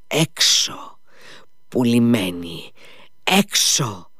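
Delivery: put-on furious shriek of an insulted young lady. A narrator's reading. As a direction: drive her out with a shriek. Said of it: "ούρλιαξε η Κατερίνα Ιβάνοβνα".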